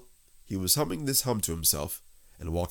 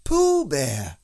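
high, loud bear voice; announcing bear; 8 semitones higher, 9 dB louder than usual. A narrator's reading. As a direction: declare it proudly into the hole. Pooh names himself.

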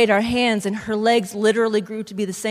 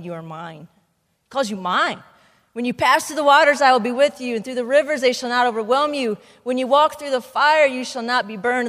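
scripture reading. Acted. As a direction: proclaim it like the Lord speaking. Reads Isaiah passage aloud.

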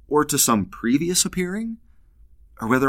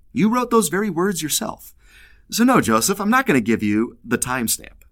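teasing Lord voice; 5 semitones higher than usual. Retold or imitated. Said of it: "the Lord ... says".

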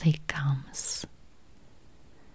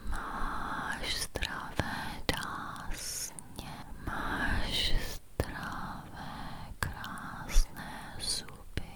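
very soft, slow Czech whisper; barely audible whisper; 15 dB quieter, slower than usual. Acted. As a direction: breathe the Czech words almost silently. Czech affirmations after English ones.

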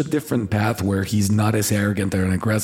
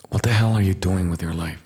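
softer, lower and close to the mic; soft emotional; 3 semitones lower than usual. Shown as a demonstration. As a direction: ask it gently, close and caring. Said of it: "very softly and very emotionally".

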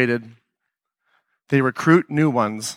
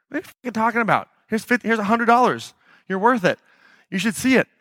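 high and fast, exasperated, overriding the refusal; rapid insisting; 6 semitones higher than usual. Retold or imitated. Host overriding a refusal of money, fast high exasperation. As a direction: talk over their no, quick and high.

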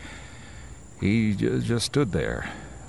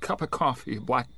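frightened pleading. Acted. Driver pleading with the stand owner, scared and high. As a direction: beg for help with mounting fear.

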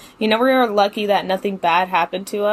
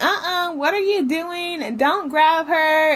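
protective friend; 7 semitones higher than usual. Retold or imitated. Friend defending her, voiced.

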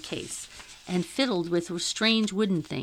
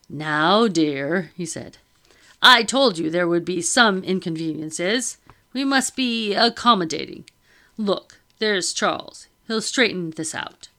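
loud, calming husband; soothing gentleman; 5 dB louder than usual. Acted. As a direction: settle her down firmly.

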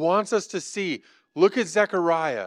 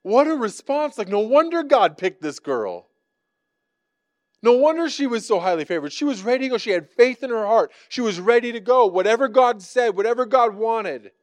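higher and louder, ringing exclamations; fervent preaching; 5 semitones higher, 4 dB louder than usual. Acted. Preacher praising Mary's faith to the church, fervent. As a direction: proclaim it with joyful conviction.

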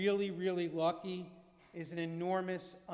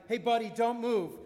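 retold shout; 3 semitones higher, 6 dB louder than usual. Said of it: "someone else kept shouting".

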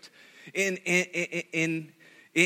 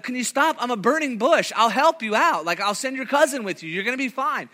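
higher, mock-exasperated God; a playful, put-out God; 5 semitones higher than usual. God brushes off Moses' excuses, lightly exasperated. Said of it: "and God's like".

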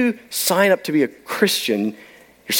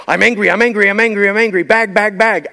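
mock angry officer, rapid repeated phrases; slightly raised, hammered-out mock anger; mock angry questioning; 4 semitones higher, 3 dB louder than usual. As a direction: imitate an officer's angry tirade as heard by someone lost. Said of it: "so all I hear is".

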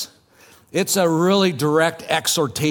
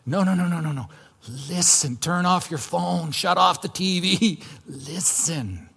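emphatic plea. Acted. Preacher voicing Paul begging the church to listen, emphatic. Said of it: "He's trying to be emphatic".

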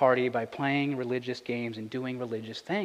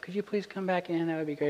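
mock polite plea; 3 semitones higher, 7 dB quieter than usual. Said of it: "it wasn't gonna be like".

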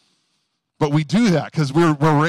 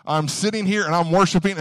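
mock worship prayer; 6 semitones higher, 4 dB louder than usual. Preacher mimicking self-abasing worshippers, pleading. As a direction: ham up a groveling churchgoer crying out to God.

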